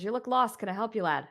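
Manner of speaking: friendly stablehand calling out to a stranger; groom's greeting. Acted. GM voices groom greeting player.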